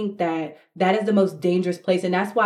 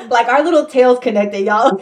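laughing; 5 semitones higher, 8 dB louder than usual. Real, not acted. Joking Avatar reference.

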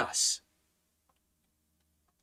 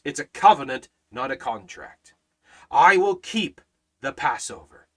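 rising and falling pulpit cadence, punching each key word; fervent preaching; 3 dB louder than usual. Acted. Pastor preaching the Passover promise to his congregation, fervent.

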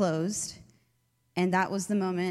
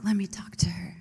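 imitating a whispered offer. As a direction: whisper it like a confident friend stepping in. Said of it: "Stephanie's like".

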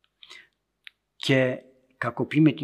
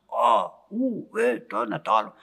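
imitated herding calls; 8 semitones higher than usual. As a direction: imitate a muleteer's distant calls, pitched up. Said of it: "άκουγα στο βουνό έναν να, να φωνάζει". (μίμηση φωνών αγωγιάτη, ψηλά)

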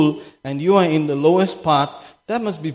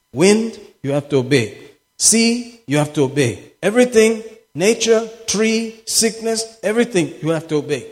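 commanding; 5 semitones higher than usual. Acted. Acts out commanding nature.

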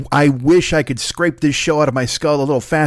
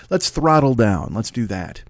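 slowing down; 3 semitones lower, slower than usual. Real, not acted. Host reins himself in after rushing, slowing down. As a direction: ease off the pace on purpose. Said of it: "I'm talking super fast".

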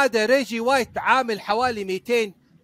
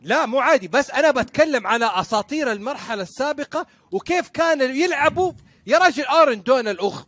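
raised pitch, emphatic objection; heated rebuttal; 5 semitones higher, 4 dB louder than usual. Real, not acted. Guest defending old football legends against his co-hosts, heated. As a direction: argue back hard, voice climbing.

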